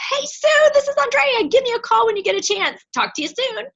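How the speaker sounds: high, bright voicemail voice, like you have gossip; excited, gossipy. Shown as a demonstration. Coach demonstrating a voicemail to a friend, excited gossipy. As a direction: sound like you have juicy news. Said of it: "You're gonna sound like you have gossip".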